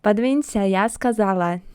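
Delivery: loud, rude demand with overdone A; Russian Karen. Acted. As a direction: order them aside like a rude Karen. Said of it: "sound like Russian Karen, overpronouncing A".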